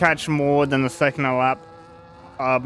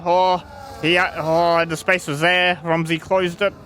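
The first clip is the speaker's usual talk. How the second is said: excited commentary; 5 semitones higher than usual. Real, not acted. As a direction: catch the close overtake. Near overtake, excited call.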